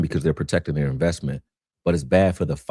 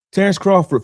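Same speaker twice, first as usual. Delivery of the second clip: emphatic; 5 dB louder than usual. Real, not acted. Emphatic name drop.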